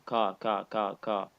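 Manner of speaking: ka said thin with an empty mouth; ka repeated light, wrongly; incorrect light ka. Shown as a demonstration. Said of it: "This is incorrect".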